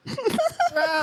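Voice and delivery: high mock yell; short, high-pitched wordless yell; crazy yelling. Shown as a demonstration. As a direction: imitate a crazed yeller from afar. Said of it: "crazy yelling".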